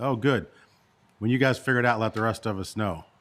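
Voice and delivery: mock sarcastic, dismissive, insincere tone. Retelling how others responded to a request for information: imitating a sarcastic remark. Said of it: "I mean that with some sarcasm".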